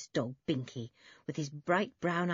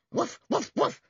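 high, sharp spoken woofs; dog barking; 11 semitones higher, 5 dB louder than usual. A narrator's reading. Binky hunting rats in the barn, dog barking. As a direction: bark like an excited dog. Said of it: "Shouts and barks".

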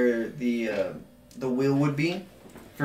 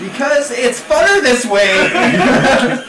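laughing; 10 semitones higher, 9 dB louder, much slower than usual. Real, not acted. Defending the house rule.

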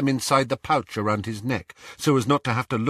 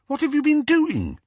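dismayed. Acted. Hermione dismayed at mess.

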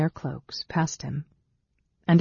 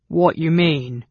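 loud, indignant goblin question; demanding goblin; 2 semitones higher, 5 dB louder, slower than usual. A narrator's reading. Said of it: "demanded Glob".

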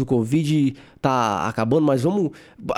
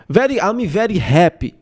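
put-on thick Brazilian-accented English, pitched up; Amanda Nunes; 4 semitones higher, 3 dB louder than usual. Fighter happy after winning, thick Brazilian accent. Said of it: "inglês muito puxado".

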